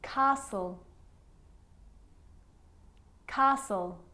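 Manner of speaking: "Castle" as CAH-sul, no T; careful, separate models of "Castle"; silent T. Shown as a demonstration. Teacher showing the sneaky T, careful repeated model. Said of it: "it can also be silent".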